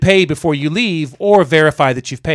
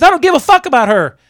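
high-pitched mock fury; angry dismissal; 9 semitones higher, 4 dB louder than usual. Irate driver dismissing the stranded woman, mock furious. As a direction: imitate an irate driver brushing someone off.

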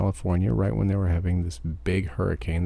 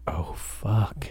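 breathless whispered oh fuck; whispered curse; 4 dB quieter than usual. Retold or imitated. Trucker realizing nobody cares, whispered dismay. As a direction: drop to a bare whisper, stunned.

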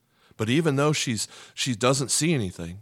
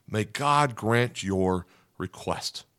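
slow, solemn priest's blessing; much slower than usual. Retold or imitated. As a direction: give the blessing like an old priest, slowly. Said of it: "the priest essentially says to her".

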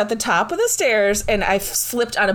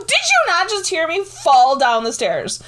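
mild retold indignation; 6 semitones higher than usual. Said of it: "I go".

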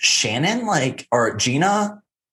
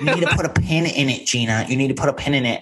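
lightly mocking catchphrase, pitched up; Shannon impression; 4 semitones higher, faster than usual. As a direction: imitate her repeated scolding, a bit high. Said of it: "every single time Shannon goes".

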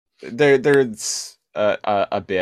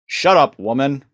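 dismissive Optimus Prime; 4 semitones higher, 4 dB louder than usual. Retold or imitated. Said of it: "Optimus is basically like".

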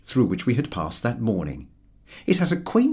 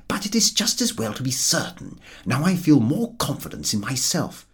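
a light, self-satisfied character voice, barely shifted from the narrator; smug Harris; 4 semitones higher than usual. Acted. Harris reassuring George he knows the way, lightly voiced smugness. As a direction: play the pleased know-it-all.

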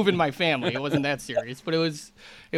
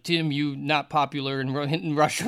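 lightly put-on Russian accent; Russian agent; 3 semitones lower than usual. Russian agent scolding his client, mock Russian accent. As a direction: imitate a Russian agent's broken English. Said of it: "Russian agent, and he was just like".

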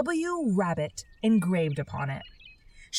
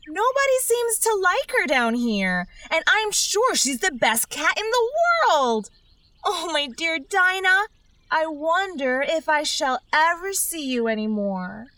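melancholy; 8 semitones higher than usual. A narrator's reading. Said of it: "in a melancholy tone".

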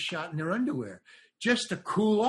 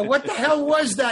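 higher, louder bewildered question; surprised outburst; 9 semitones higher, 7 dB louder than usual. Retold or imitated. Actor asks crew why he cried, surprised. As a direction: blurt out the shock. Shocked actor asking about tears.

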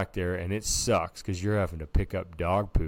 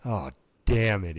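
put-on kid caught; 5 dB louder than usual. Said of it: "he says".

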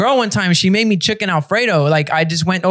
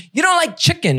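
put-on accusing girlfriend; 9 semitones higher than usual.

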